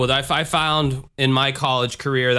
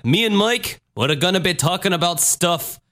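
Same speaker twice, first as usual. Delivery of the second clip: put-on a half-hearted Liverpool accent, higher; mock announcement in a shaky British accent; clumsy British accent addressing the listeners; weak British accent; 6 semitones higher than usual. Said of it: "out of all my accents, that's the weakest one".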